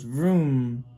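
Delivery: long drawn-out vroom; car engine noise. Acted. Parent showing what the car goes, car engine noise. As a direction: stretch it out like a revving car. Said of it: "The car goes".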